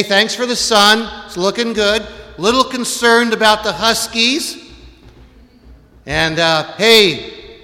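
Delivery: high, loud, breezy chat with God; casual mock prayer. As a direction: act out a chummy, offhand prayer. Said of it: "something as simple as".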